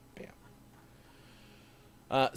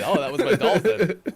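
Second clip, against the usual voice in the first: eager self-explaining; 8 semitones higher, 10 dB louder than usual. Retold or imitated. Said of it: "I already immediately jump in and say".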